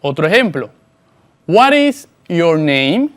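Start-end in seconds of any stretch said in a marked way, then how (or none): 1.5-3.1 each word spaced out slowly for the learner; slow model sentence. Shown as a demonstration. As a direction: say it slowly and clearly, like a teacher modelling. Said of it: "presta mucha atención". (pregunta modelo, lenta y clara)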